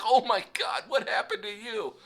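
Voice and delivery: high, loud, laughing outburst; laughing disbelief. Retold or imitated. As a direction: burst out laughing in shock. Coworker George reacts, laughing.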